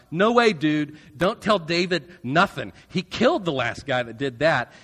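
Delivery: loud, blunt refusal; Joab refusing. Retold or imitated. Joab refusing to send Ahimaaz, loud and blunt. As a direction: shout it like a spooked officer saying no. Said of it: "So Joab tells Ahimaaz".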